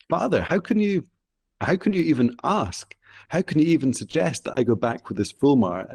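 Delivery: lightly acted indignant plea, starting high and settling; a hint of a shocked daughter, pitch high on Father; outraged daughter. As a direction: Sedna protests her father, mock indignation. Daughter protests father's betrayal.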